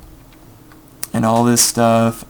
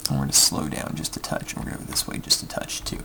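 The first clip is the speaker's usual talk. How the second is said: quiet concentration; 10 semitones lower, 10 dB quieter, faster than usual. Real, not acted. Concentrating on docking manoeuvre.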